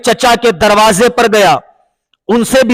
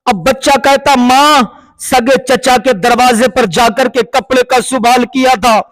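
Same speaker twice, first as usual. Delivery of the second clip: impassioned sermon climax; 3 semitones higher than usual. Acted. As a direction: lift the voice as the story peaks. Emotional climax of the told story.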